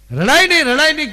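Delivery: mother's high, loud plea to stop crying; mother urging her crying daughter, high and loud; loud repeated hushing. Retold or imitated. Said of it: "કીધું બે વાર".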